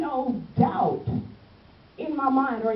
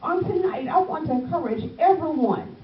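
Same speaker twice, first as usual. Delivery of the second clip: preaching. Acted. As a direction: lift the congregation with fervor. Preaching builds.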